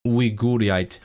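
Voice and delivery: "Uighurite" as wee-GOO-ree-ite; Welsh pronunciation. Shown as a demonstration. Streamer reading the Welsh word, "Uighurite" as wee-goo-ree-ite. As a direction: sound out "Uighurite" with an oo middle. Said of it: "Welsh pronunciation of".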